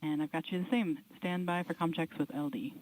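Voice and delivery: crisp comm check on the loop; astronaut radio. Real, not acted.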